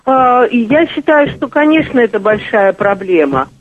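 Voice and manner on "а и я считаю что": ordinary talk, nothing marked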